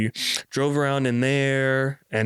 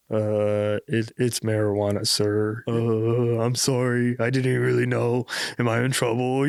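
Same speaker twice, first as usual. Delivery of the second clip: meek apology. Retold or imitated. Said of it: "about to, like, start crying".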